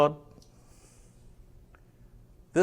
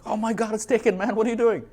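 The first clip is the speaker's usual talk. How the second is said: higher, louder mock panic; alarmed exclamation; 11 semitones higher, 3 dB louder than usual. Calling Todd after the name got taken, alarmed and higher. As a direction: sound like the brand name just slipped away.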